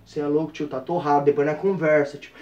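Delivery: very low, soft murmur; low cool aside. Retold or imitated. Showing off to the girls mid-police check, low and cool. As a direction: drop deep and keep it barely voiced. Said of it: "Eu só virava pras minas e fazia assim, ó".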